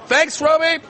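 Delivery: loud, high thanks called across; shouted thanks. Real, not acted. Co-host thanks stallholder Robbie from afar, loud call. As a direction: holler your thanks to a far-off mate. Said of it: "Bit of screaming".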